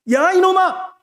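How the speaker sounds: high, fond scold from God; mock scolding call.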